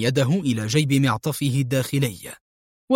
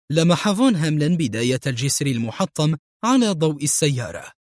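plain reading voice

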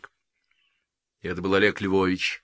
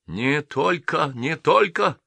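insistent; 8 semitones higher, 4 dB louder, slower than usual. Acted. Jealous lieutenant insisting.

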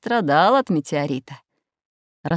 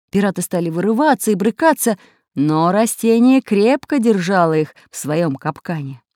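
ordinary delivery, nothing marked

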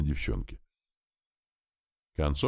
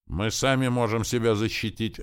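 mild militant; 6 semitones higher than usual. A narrator's reading. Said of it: "воинственно произнесла Янка".

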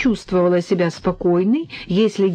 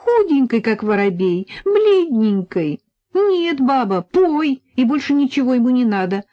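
high-pitched fretful lament; upset; 7 semitones higher, 4 dB louder than usual. A narrator's reading. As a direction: fret aloud over a child who won't eat. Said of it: "расстроенно сказала Надя". (расстроенно причитая)

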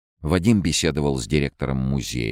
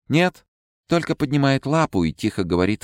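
much higher, louder teasing; playful punchline; 12 semitones higher, 4 dB louder than usual. A narrator's reading. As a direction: build up to the joke's punchline. Ольга дошучивает анекдот. (игриво, высоко и громко)

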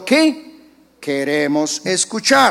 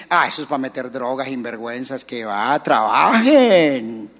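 scornful remark; 5 semitones lower than usual. Retold or imitated. Believer scorning a needy man, low and contemptuous. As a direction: sneer at beggars under your breath.

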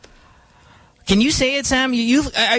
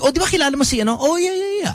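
imitating people; 10 semitones higher, faster than usual. Acting out a confused chat.

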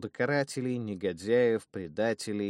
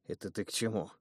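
a touch of suspicion, softer; suspicious; 4 dB quieter than usual. Acted. Wounded thug asks his brother warily, a touch suspicious. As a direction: ask it warily, on guard. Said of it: "подозрительно прищурился темноволосый".

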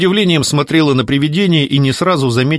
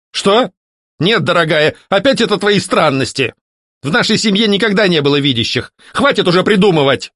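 higher, a touch of angry scolding; angry outburst; 7 semitones higher than usual. A narrator's reading. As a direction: snap at her to stop. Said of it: "зло выпалил барон".

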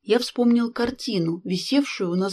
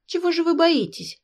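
high, light mocking question; a touch of teasing; teasing young lady; 10 semitones higher, 3 dB louder than usual. A narrator's reading. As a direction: needle him playfully. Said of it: "спросила Зинаида".

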